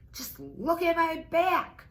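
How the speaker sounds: high, loud panicked goose cry; silly goose shrieking help. A narrator's reading. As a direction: squawk for help like a frightened goose. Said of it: "cried the goose".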